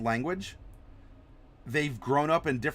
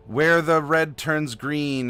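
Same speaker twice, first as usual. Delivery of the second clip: ominous prophecy; 7 dB louder, slower than usual. Pretend. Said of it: "the prophecy of doom could very well be something along the lines of".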